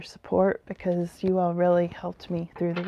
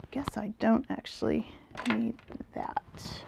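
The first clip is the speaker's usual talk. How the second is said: whispered aside; 2 semitones higher, 10 dB quieter than usual. Real, not acted. Muttered aside to herself.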